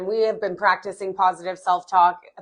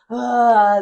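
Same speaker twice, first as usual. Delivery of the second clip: loud mock groan of self-reproach; exasperated groan; 2 semitones higher, 7 dB louder than usual. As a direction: groan like a fed-up inner voice. Mimics negative inner voice groaning.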